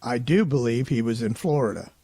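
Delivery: lightly imitating her, slight lift on "do"; clearly quoted, gentle emphasis on "do". Investigator quoting Kate's recorded reply, clearly, leaning on "do". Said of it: "very clearly".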